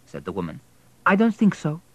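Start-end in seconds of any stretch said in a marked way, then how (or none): 1.0-1.8 voiced husband. Husband and wife quarrel voiced.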